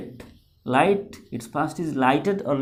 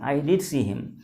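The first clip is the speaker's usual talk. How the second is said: did stressed, insisting; emphatic did. Shown as a demonstration. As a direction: assert it firmly on did. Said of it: "I am emphasizing".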